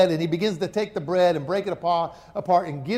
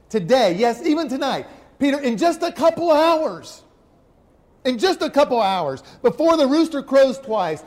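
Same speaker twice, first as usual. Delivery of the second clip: higher and louder, slowing at the end; Jesus warning Peter, louder and rising; emphatic prophecy; 4 semitones higher, 5 dB louder than usual. Acted.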